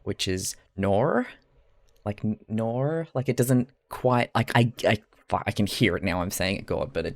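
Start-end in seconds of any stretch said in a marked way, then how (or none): 0.8-1.3 slow Australian "nor", drawn out; Australian accent. Shown as a demonstration. Streamer shows chat her Australian reading of N A U R, Australian accent. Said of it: "I read it in an Australian accent". 2.0-3.1 slow, tentative Australian "nor"; Australian accent. Shown as a demonstration. Streamer tests how the spelling sounds, Australian accent. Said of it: "I read it in an Australian accent".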